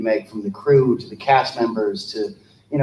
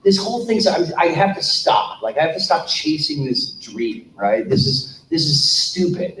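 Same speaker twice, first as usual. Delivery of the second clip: fed-up rant; 4 semitones higher than usual. Retold or imitated. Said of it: "I was instantly pissed".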